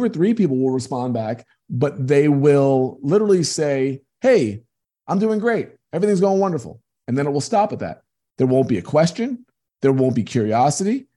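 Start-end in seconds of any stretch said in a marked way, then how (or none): 4.2-6.8 higher, chirpy brush-off, imitating a contact; sing-song fake cheer, dismissing the talk; mock breezy reply. Coach mimics busy contacts brushing him off, chirpy mock cheer.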